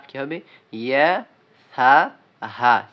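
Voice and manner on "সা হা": সা said softly, slowly and drawn out; a slow, gentle সা for the students. Shown as a demonstration. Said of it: "সা হরফের উচ্চারণ নরম করিয়া পড়তে হবে". (নরম করে সা উচ্চারণ)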